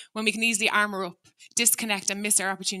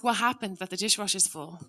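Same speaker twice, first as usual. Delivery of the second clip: calm curious ask. Shown as a demonstration. Parent asking family calmly about the dishwasher, curious. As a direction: ask gently, wanting to understand.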